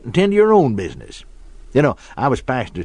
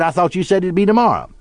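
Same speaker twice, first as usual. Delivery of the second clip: put-on higher, puzzled child's objection; three-year-old son; 5 semitones higher than usual. Son catching out his father at bedtime, childlike puzzlement. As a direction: imitate a confused little boy protesting. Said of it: "our son was just three years old".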